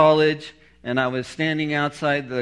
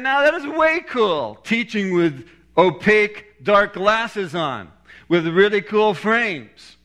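high, excited inner voice of an impressed student; awestruck admiration; 6 semitones higher, 3 dB louder than usual. Retold or imitated. Student thinking about his professor's dark glasses, awestruck. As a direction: retell being wowed, pitched well up.

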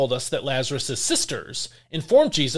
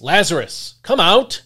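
calling loudly, higher, into the tomb; 4 semitones higher, 7 dB louder than usual. A narrator's reading. Jesus calling Lazarus from the tomb, a loud commanding call. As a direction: call Lazarus out of the grave with full voice. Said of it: "he called out in a loud voice".

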